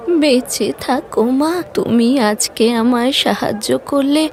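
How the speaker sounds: lightly voiced old woman giving blessings. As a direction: bless her slowly like a grateful grandmother.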